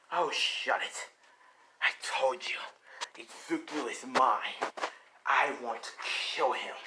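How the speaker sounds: a hint of a possessive, menacing monster; lightly voiced Venom. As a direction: lightly play a villain claiming his prey, voice partly whispered.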